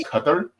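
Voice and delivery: Qatar said like "cutter"; cutter-style Qatar. Shown as a demonstration. Guest giving his pronunciation, Qatar as CUT-er. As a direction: stress the first syllable, CUT-er for Qatar. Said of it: "I think it's".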